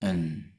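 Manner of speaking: "and" said soft with a schwa; weak form "and" with schwa. Shown as a demonstration. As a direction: reduce "and" to a light schwa. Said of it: "the weak forms that are with schwa".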